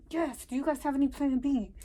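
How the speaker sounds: soft and low, embarrassed; hushed confirmation. Retold or imitated. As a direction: confirm it quietly so others can't hear. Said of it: "Lower your voice".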